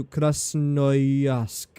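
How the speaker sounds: accidental, drawn-out Russian accent; bad Russian accent. Real, not acted. Gamer setting a train timetable, bad Russian accent. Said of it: "made it sound Russian there by accident".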